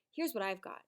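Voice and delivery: unvoiced hushed aside; whisper. Real, not acted. Teacher whispering to the class before sharing the rewrite, hushed. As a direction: let them lean in, whisper it.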